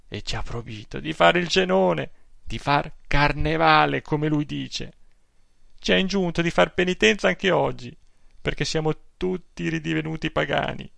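an aggrieved pious aunt pouring out her complaints; indignant old aunt. Acted. Old aunt telling her nephew about the priest, scandalized.

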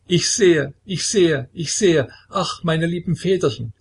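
high, loud possessed cry; screaming. A narrator's reading. Possessed woman screams her vision at the elders, high and loud. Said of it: "schrie plötzlich Kilikea".

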